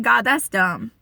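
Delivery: mildly indignant complaint to God; mad protest. Retold or imitated. Wife arguing with God over the Bible verse, mildly mad. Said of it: "I was mad".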